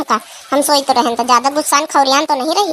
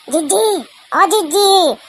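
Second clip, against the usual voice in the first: slower, higher sing-song; drawn-out sister call; coaxing call; 5 semitones higher than usual. Acted. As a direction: rouse her teasingly. Calling sister again.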